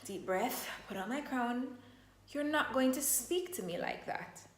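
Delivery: soft, calm and steady; calm green state reply; calm firm boundary. Retold or imitated. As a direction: hold your ground quietly. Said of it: "I would say".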